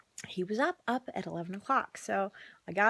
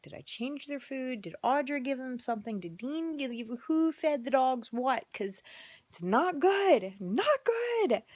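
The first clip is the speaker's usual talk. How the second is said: worried muttering; 3 semitones higher than usual. Retold or imitated. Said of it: "I'm like".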